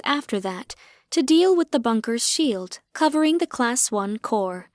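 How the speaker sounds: a hint of a formal recorded announcement; recorded message. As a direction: read it like a drone's message. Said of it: "a recorded message".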